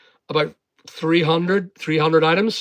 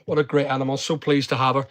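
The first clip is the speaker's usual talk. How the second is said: tender; 4 semitones lower, 4 dB quieter, faster than usual. Real, not acted.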